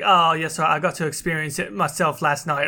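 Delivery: botched, unplaceable put-on accent; Andrew Wilson. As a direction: attempt an executive's accent and miss it. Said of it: "that's my Andrew Wilson impersonation".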